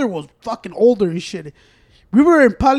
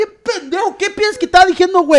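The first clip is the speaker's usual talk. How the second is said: laughing; 10 semitones higher, 7 dB louder than usual. Real, not acted. Laughing at friend's mishearing.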